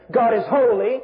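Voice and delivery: "holy" restated firmly with a rise; repetition for emphasis. Shown as a demonstration. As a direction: repeat it, lifting the end of "holy". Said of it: "the repetition".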